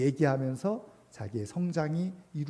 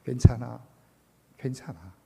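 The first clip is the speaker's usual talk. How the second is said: comforting; 4 dB louder than usual. Retold or imitated. Teacher patting a child's back, acted-out comforting. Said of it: "등을 두들기면서".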